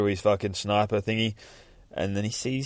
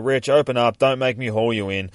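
raised, higher voice of command; yelling; 4 semitones higher, 7 dB louder than usual. Retold or imitated. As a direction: call through a closed door. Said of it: "still yelling".

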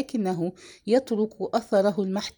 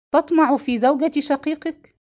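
raised, higher-pitched outcry; accusing cry; 6 semitones higher, 4 dB louder than usual. A narrator's reading. Bakr accuses his brother over his wife, crying out. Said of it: "فصرخ".

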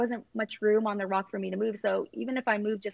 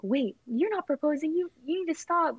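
high-pitched protest, no real volume; mild mock yell, pitched up; retold nervous yelling; 6 semitones higher than usual. Nervous girlfriend protesting at her boyfriend's proposal, retold mild yelling. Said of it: "Like, I'm yelling at him".

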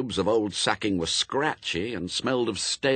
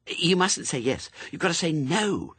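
put-on urgent, high-pitched child's prompting; hissed correction; 10 semitones higher than usual. A narrator's reading. Head torturer corrects the suspect, urgent hiss. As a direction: prompt her insistently in a higher voice. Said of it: "hissed the head torturer".

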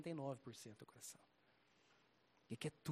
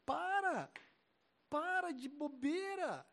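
higher, louder, slow stern command; retold stern rebuke; 10 semitones higher, 4 dB louder than usual. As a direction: order him to stop it. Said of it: "Eu falei".

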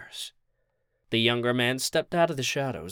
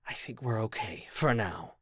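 hushed, much softer murmur; whispering; 2 semitones lower, 7 dB quieter than usual. A narrator's reading. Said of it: "he continued to whisper".

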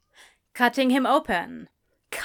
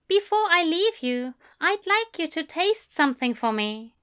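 higher, lilting character voice; Aziraphale coaxing; 7 semitones higher than usual. A narrator's reading. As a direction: make a sly request, pitched up.

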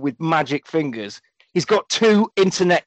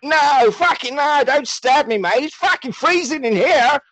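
hammed-up panic; 10 semitones higher than usual. Gary reliving torture, mock panicked high cry. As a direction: ham up a torture flashback. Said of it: "and he's like".

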